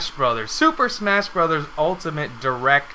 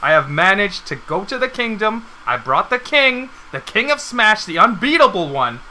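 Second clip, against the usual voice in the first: louder, higher grand announcer build-up; hype announcer; 4 semitones higher, 4 dB louder than usual. Acted. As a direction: present the champion like royalty. Announcing the king guest.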